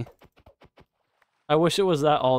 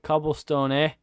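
put-on Canadian accent. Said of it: "Like we're fucking Canadian?".

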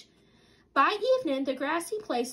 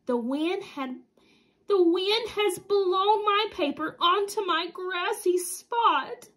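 moaning; 5 semitones higher, slower than usual. Acted. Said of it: "moaned Mister Centipede".

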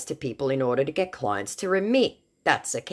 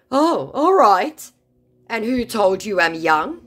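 high, slow, louder put-on voice; mock surprised scammer; 9 semitones higher, 6 dB louder, slower than usual. Scammer caught off guard by narrator, high silly voice.

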